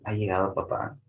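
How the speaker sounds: Ha llegado papá as a yes-no question, rising on papá; Ha llegado papá with an ascending tune. Shown as a demonstration. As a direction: lift the end of papá. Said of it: "Tiene un tono, este, ascendente".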